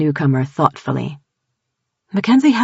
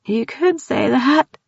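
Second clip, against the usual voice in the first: grim; 8 semitones higher, slower than usual. Acted. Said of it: "Tildy said in a grim voice".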